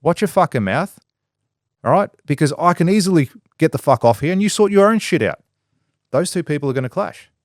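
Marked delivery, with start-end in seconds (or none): 0.0-5.4 higher, sharp mock yell back; young worker biting back at his boss, mock angry; mock angry comeback. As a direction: snap back at the boss, hammed-up.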